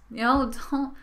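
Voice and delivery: ordinary talk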